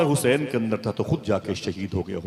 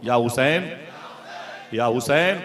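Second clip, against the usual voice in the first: "या हुसैन" called out louder, rising on "हुसैन"; 3 semitones higher, 4 dB louder than usual. Shown as a demonstration. Preacher leading the crowd's call, louder "या हुसैन". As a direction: raise the voice on "या हुसैन". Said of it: "ऊंची आवाज से बोलिएगा".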